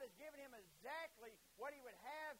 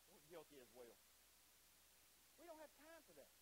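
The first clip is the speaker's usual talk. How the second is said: softer, hushed echo of the excuse; quiet admission; 3 semitones lower, 7 dB quieter than usual. Acted. Preacher admitting we are guilty as well, subdued. Same words owned as congregation's guilt.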